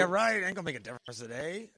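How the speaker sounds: loud, high scoffing impression of a doubter; imitated dismissive jeer; mock scepticism. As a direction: scoff as the disbeliever.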